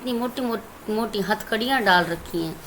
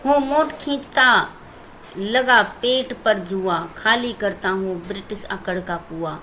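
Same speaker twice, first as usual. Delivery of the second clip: poem recitation; 3 semitones lower than usual. Shown as a demonstration. Teacher recites poem stanza.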